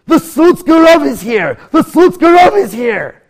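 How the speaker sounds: very high, loud, drawn-out shout; slow, excited cry at full voice; astonished announcement. Acted. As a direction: proclaim it to the whole house. Gadol proclaims who he found.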